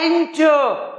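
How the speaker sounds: "एंटर" with एन high and drawn out; slow EN-tuh for "एंटर"; stress on first syllable. Shown as a demonstration. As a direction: punch एन in "एंटर", let टर fall away. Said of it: "देखिए stress एन पे है".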